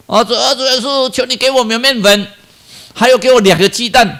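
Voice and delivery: put-on a small child pleading earnestly to Jesus; child's prayer. Child prays in church, earnest childlike plea.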